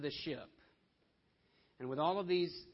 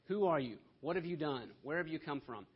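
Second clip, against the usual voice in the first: a touch of agitated interrogation, louder at first; upset mob questioning; 3 dB louder than usual. Acted. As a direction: fire the questions like a mildly upset crowd. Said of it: "they mob Jonah".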